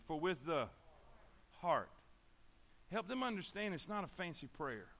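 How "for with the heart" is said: lower, with a pause before "heart"; stress on heart. Shown as a demonstration. Leading listeners to say the verse along, pausing before "heart". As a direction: hold back, then set "heart" on its own. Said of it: "say it with me".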